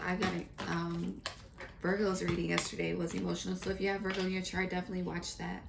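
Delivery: ordinary talk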